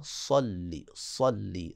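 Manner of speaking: tajweed demo, heavy ص; heavy sad. Shown as a demonstration. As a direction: say صلی with a full heavy ص. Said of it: "صاد کو موٹا".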